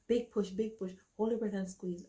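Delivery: loud urging coach calls; coaching nurse. Retold or imitated. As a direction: push her on like a coach. Nurse coaching her to push.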